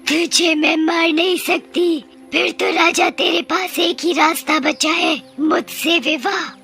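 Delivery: high witch voice, drawing out the last words; insistent witch. Acted. Witch leaving the king one option, insistent. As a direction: press your demand as a witch.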